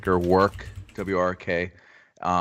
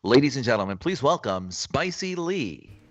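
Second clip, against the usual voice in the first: mock announcer; 3 semitones higher than usual. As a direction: hype up the guest like a show host. Mock stage introduction of a friend.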